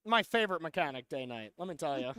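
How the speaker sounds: dry sarcastic praise. Real, not acted. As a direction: say it like you hate it. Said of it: "I was being very sarcastic".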